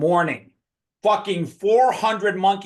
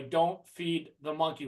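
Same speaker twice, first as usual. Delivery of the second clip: quiet passive warning; 5 dB quieter, slower than usual. Retold or imitated. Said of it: "When they say don't feed 'em".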